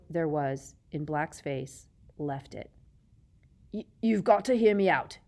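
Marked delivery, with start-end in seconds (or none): 3.7-5.2 hoarse, desperate plea; croaking. A narrator's reading. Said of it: "he croaked".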